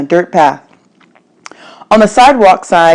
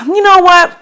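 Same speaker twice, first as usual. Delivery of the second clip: a hint of a gruff stranger lecturing; stranger's voice; 7 semitones higher than usual.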